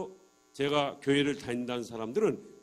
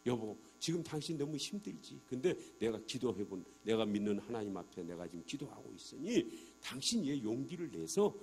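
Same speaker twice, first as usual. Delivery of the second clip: comforting; 4 semitones lower, 3 dB quieter than usual. Retold or imitated. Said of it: "먼저 위로하자".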